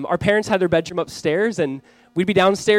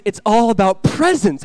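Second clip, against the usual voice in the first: put-on raised, loud kid's announcement; mimicked child's gleeful answer; imitated young son; 5 semitones higher, 6 dB louder than usual. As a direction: declare it like an excited four-year-old. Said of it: "He goes".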